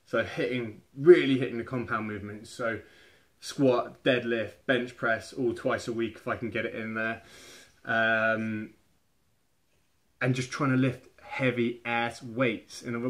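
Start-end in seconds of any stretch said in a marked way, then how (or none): none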